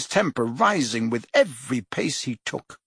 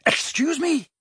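much higher, sharp outburst; barked; 13 semitones higher than usual. A narrator's reading. Prime Minister barks at Fudge, sharp disbelief. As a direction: snap it back in disbelief. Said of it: "barked the Prime Minister".

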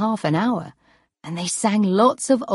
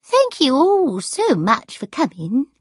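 high, gracious hostess voice; best voice; 6 semitones higher, 3 dB louder than usual. A narrator's reading. Sarah thanking the crowd for coming, best voice. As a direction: thank them grandly in your best voice. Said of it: "she said in her best voice".

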